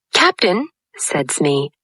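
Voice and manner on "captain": pirate sidekick. A narrator's reading. Smee voiced.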